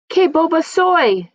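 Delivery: high, loud, slowed cry of dismay; a loud, slow gasp of "silly me"; self-scolding exclamation. Acted. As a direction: exclaim at your own silliness, drawn out. Grandmother scolds herself for forgetting.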